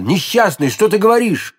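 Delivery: mildly appalled question, rising at the end; a touch of alarm; shocked cry. A narrator's reading. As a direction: protest in startled disbelief. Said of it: "вскричал Д'Артаньян".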